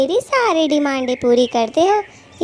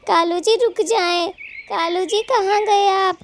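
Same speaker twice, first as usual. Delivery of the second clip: desperate pleading; 3 semitones higher than usual. Acted. Wife pleading with Kalu as he flees, frantic. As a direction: beg him not to run off and leave you. Abandoned wife begging husband not leave.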